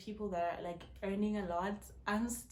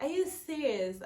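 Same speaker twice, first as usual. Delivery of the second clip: stunned disbelief; 7 semitones higher, 8 dB louder than usual. Retold or imitated. Shocked reaction retold.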